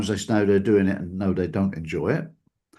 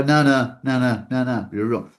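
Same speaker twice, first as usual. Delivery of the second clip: a mild mock shout, fading as it goes; mock loud arguing; 4 dB louder than usual. Someone in an argument shouting down your point, mock loud. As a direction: imitate someone cutting you off, loud then settling. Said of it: "you tend to shout a bit louder to emphasize your point".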